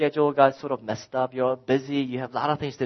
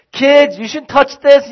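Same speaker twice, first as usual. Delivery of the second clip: slow, louder scolding; 13 semitones higher, 9 dB louder than usual. Retold or imitated. Dad calling out to the kids, loud and slow. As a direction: say it firmly to the kids. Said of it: "sort of loud tone".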